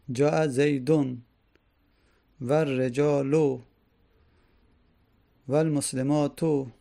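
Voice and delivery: slow examples with final u vowels sounded; damma endings sounded. Shown as a demonstration.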